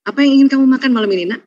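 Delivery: quick, eager offer; caring mother. Retold or imitated. Mother asking daughter what she wants to eat, quick and eager. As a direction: lightly play a doting mother. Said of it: "Kalau ibu kandung apa ibu kandung?".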